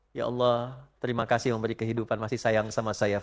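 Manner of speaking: soft, quick grateful prayer; tearful gratitude. Retold or imitated. Devout person thanking God at sunrise, soft. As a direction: murmur thanks to God gently. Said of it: "bisa menangis".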